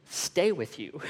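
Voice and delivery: mildly puzzled echo question; perplexed. Retold or imitated. Wife questions husband's wish, quite perplexed. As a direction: imitate a baffled query. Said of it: "quite perplexed".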